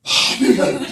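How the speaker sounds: ordinary talk, nothing marked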